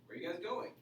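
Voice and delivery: "Where are you guys going?" with the pitch lifted on "going"; rising question tune. Shown as a demonstration. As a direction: let "going" rise a little at the end. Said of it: "I'll raise my voice at, a little bit at the end".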